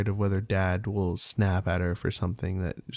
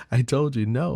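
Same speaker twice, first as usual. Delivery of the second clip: mock stern scolding; 4 semitones higher, 5 dB louder than usual. Father scolding kid again.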